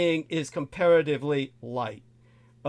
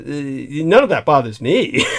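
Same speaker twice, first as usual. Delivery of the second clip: laughing; 5 dB louder, slower than usual. Real, not acted. Laughing while dismissing film's message.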